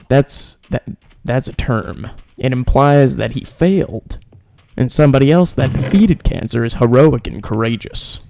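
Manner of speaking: lightly imitated comedian, halting delivery; a hint of deadpan-comic impression, key words punched; Norm Macdonald. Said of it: "Norm Macdonald".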